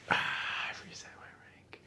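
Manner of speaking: breathy whispered realization. Real, not acted. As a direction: breathe it out in shock. Whispered after loud outburst.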